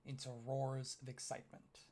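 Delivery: measured, dramatic narration with long pauses; game master's scene setting. Acted. Game master describing the arena to players, measured dramatic narration. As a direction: set the arena scene slowly and deliberately.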